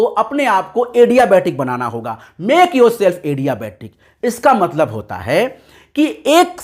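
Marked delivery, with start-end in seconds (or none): 2.4-3.9 very slow, each word spaced out; drawn-out slogan for students; slow emphatic slogan. Shown as a demonstration. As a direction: drill the motto in word by word.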